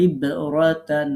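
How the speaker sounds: teacher repeating the ইব jolt for the student; qalqala push. Shown as a demonstration. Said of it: "এরকম একটু ধাক্কা দিতে হবে".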